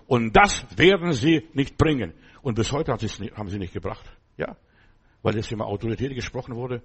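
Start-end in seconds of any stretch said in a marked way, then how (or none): 0.1-2.1 firm warning. Retold or imitated. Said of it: "ich sag am Telefon".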